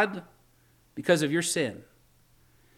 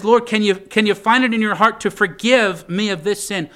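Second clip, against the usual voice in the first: raised, louder plea to the Lord; urgent acted prayer, pitched up; begging forgiveness; 4 semitones higher, 5 dB louder than usual. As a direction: implore God earnestly. Voices David begging forgiveness.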